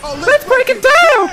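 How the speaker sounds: drawn-out hype shout; slow shout. Real, not acted. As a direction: stretch it out like an announcer. Hype call in game.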